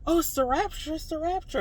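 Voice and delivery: high-pitched excited realisation; retold thrill of it suddenly clicking; dawning realisation. Dreamer realising what the vanishing means, excited realisation.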